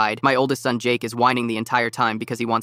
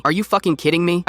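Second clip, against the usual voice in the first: high, exasperated snap; annoyed outburst; 6 semitones higher than usual. Retold or imitated. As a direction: spit it out in disbelief, higher. Bike guy recognizes him, annoyed.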